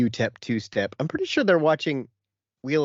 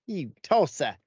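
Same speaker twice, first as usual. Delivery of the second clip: put-on Essex accent; 2 semitones higher, slower than usual.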